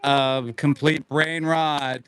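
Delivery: slow, grand announcer voice; announcing big news. Acted. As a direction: draw it out like a proclamation. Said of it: "we have an announcement to make".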